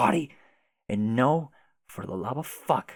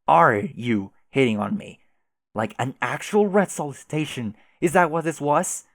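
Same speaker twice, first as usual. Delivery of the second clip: angry; 3 semitones higher, 6 dB louder than usual. Acted. Troll outraged at flirting.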